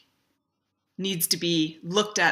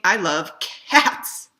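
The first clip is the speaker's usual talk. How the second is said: "I" slow and louder, rising like a question; stress on I, rising; 5 dB louder, much slower than usual. Shown as a demonstration. Third demo for bloggers, slow rising stress on "I". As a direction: slowly lift the word "I" up. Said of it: "And it's different than saying".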